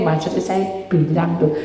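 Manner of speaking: ordinary talk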